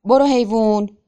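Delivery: loud, agitated command to the animal; angry, anxious shout. A narrator's reading. Simon flapping his arms at the horse, urgent angry shout. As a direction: yell to drive the horse on. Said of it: "خشمگین و مضطرب داد زد".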